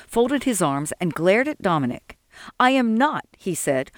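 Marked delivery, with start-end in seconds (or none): 2.6-3.2 higher-pitched stubborn protest; defiant refusal. A narrator's reading. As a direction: dig in and refuse, indignant. Sol glares and refuses to move.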